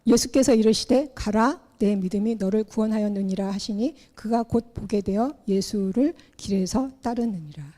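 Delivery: measured, solemn Bible reading; scripture reading. Acted. Pastor reading Mark ten to the congregation, solemn reading. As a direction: read the passage out like a pastor at the pulpit. Reads scripture passage aloud.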